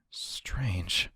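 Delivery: low, soft whisper; puzzled whisper. Acted. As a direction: breathe it to yourself, puzzled. Puzzled aside about bolted door.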